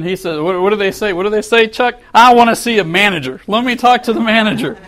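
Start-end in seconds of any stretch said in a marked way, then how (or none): 2.1-4.8 complaining customer demands the manager, mock angry. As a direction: play the irate customer, half-hearted. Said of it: "he starts screaming again".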